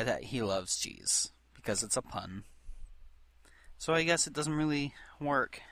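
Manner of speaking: soft unvoiced whisper. Real, not acted. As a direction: whisper it, conceding. Whispered concession.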